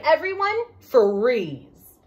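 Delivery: loud sharp warning call; urgent call. Acted. Mother bear warns the family to stop, loud call. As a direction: stop everyone in their tracks. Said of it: "heard a noise and cried".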